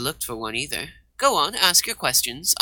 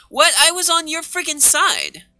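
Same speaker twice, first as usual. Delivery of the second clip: indignant squeak; 13 semitones higher, 5 dB louder than usual. Acted. Indignant outburst, pitch jump.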